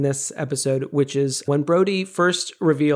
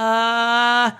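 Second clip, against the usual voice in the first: halting Frank pause; 5 semitones higher, 3 dB louder than usual. Shown as a demonstration. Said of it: "he's just always sort of like".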